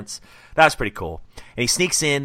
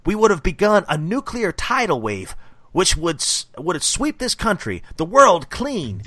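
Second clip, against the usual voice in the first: a lightly raised, ranting villain read; a mild hammed-up villain rant, a touch louder; villain monologue; 4 semitones higher, 4 dB louder than usual. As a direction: rant it like a fanatic hillbilly villain. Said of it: "read what he says".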